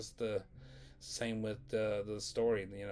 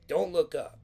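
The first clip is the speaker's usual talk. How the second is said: sudden mock-stern order, pitched up; strict substitute teacher; 7 semitones higher, 7 dB louder than usual. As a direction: imitate the teacher in a higher, louder voice. Teacher snapping out detentions, acted.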